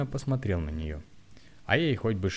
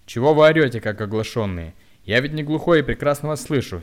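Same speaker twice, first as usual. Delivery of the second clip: loud, angry rebuke, higher; 5 semitones higher, 10 dB louder than usual. A narrator's reading. Young man angrily rebukes the shouting woman. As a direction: scold her for yelling. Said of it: "сердясь сказал он".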